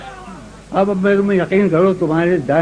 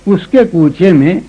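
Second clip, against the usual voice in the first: ghazal recitation. Acted. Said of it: "سنو".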